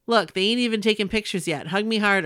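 light imitation of a Boston accent; a hint of a Boston accent, playful. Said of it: "in his adorable Boston accent".

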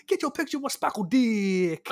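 high sing-out street hawker's call; retold yell. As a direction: call it out like a parking-lot hawker.

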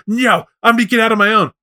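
put-on high-pitched stubborn kid refusal; childlike worm. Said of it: "childlike Worm".

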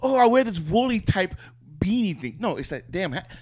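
high, mocking voice of someone dodging; mock rambling answerer. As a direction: lampoon a rambling non-answer. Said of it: "That's like".

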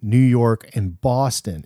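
ordinary talk

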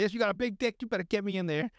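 mock pep talk.

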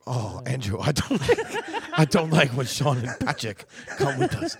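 put-on Japanese accent. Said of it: "talking in an accent".

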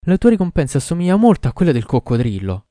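loud, high reproachful shout. A narrator's reading. Doctor shouting his reproach at the king, loud high shout. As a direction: hurl the accusation at him. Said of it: "gridò".

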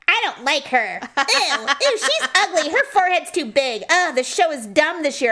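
mock grumbling. Wife mimics husband griping about the show, mock grumbling.

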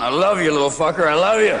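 hammed-up drunk in a headlock; drunk affection. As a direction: bellow it fondly at your buddy. Drunk hugging friend in headlock.

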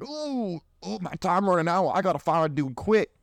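panicked woman. Retold or imitated. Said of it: "they're like".

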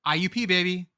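school cheer. Acted. Cheering for his old school.

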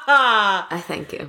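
slow, laughing theatrical thank you; a hammed-up stage thank-you; grand mock thanks. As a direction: take the bow, stretch it out.

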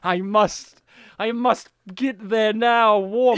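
slow, hammed-up creature craving; lizard man. Host voices actor's urge, slow mock lizard voice. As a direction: strain toward it like a cold reptile. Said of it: "He's like".

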